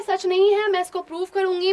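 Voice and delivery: retelling a quarrel, animated; heated retelling. Acted. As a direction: tell it like the fight is on.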